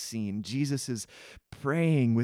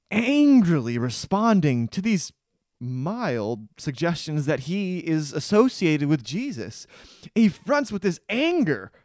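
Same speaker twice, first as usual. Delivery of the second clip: preaching intensity; 4 dB louder than usual. Real, not acted. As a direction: drive it home from the pulpit.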